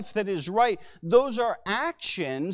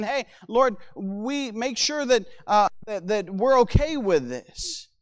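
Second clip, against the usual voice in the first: lightly acted, slightly raised plea; mild concern; 2 semitones higher than usual. Preacher voices sailors checking with the Lord, mildly concerned. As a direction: check anxiously with God, understated. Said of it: "they're, they're concerned".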